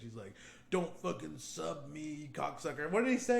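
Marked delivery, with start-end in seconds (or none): 0.7-2.9 imitating a whiny sore loser. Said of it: "he fucking whines like such a little bitch".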